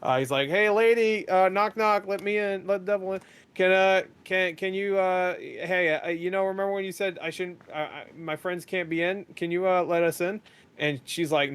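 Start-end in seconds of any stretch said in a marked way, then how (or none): 0.5-10.4 imitating Peter pleading. Peter pleading in retold scene.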